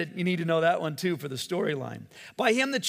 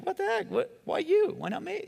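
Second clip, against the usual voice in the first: friends' mock outcry. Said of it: "your friends are all going like".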